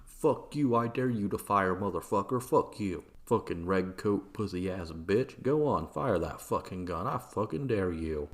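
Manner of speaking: hammed-up belligerent dare; acted rage, punching the swear words; mock angry taunting. Acted protester goading the sentry.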